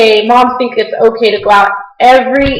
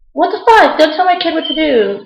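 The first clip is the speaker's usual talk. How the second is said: mock angry mom; 5 semitones higher, 4 dB quieter than usual. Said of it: "be like".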